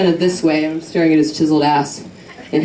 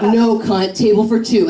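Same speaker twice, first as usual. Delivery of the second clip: put-on a lightly done Valley Girl accent, a little higher; snotty Valley Girl comeback, only half put on; bad Valley Girl accent; 3 semitones higher than usual. To the snooty hostess, a hint of Valley Girl sass. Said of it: "I'm really bad at doing the Valley Girl accent".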